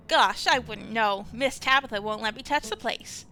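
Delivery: sweet helper eager to please; bright cheery Janie. Acted. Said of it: "she's just very bright and cheery".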